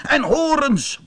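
high sheep interjection, lightly voiced; bleating sheep. A narrator's reading. Sheep demands horns for the human, lightly bleating. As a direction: chime in high, a hint of a bleat. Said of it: "blaatte het schaap".

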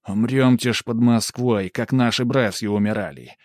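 rousing patriotic poem reading; inspired recitation. A narrator's reading. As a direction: declaim with growing fervour. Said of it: "читаю уже с вдохновением".

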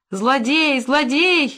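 high-pitched accusing wail; indignant high exclamation; outraged cry. A narrator's reading. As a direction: cry out at your attacker. Struck woman yells at attacker.

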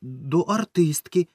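high, slow squeaky voice; frightened boy squeaking an answer; thin squeak. A narrator's reading. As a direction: squeak it out in a voice not your own. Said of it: "тоненьким, не своїм голосом пискнув я".

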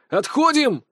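sharp high cry to fall back; exclaiming. Acted. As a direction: shout the warning, a touch held back. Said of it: "воскликнул я". (резкий высокий выкрик об отходе)

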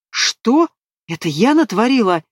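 shocked high disbelief; stunned. Acted. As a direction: blurt it out in shock. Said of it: "выдавить из себя опешившая Лера".

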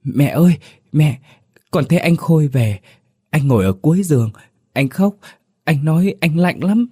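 put-on high, loud trembling child's voice; a scared little boy telling of a ghost; frightened child. A narrator's reading. Small son clinging to his mother at night, frightened. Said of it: "run rẩy ôm lấy mẹ thì thào".

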